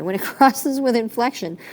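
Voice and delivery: a laugh breaking into the restart; laughing through it. Real, not acted. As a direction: restart the phrase with an embarrassed laugh. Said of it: "I'm so sorry".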